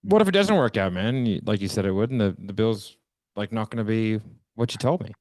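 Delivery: doubting prospect. Pretend. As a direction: challenge the rep, then settle. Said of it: "Matt, be the prospect here".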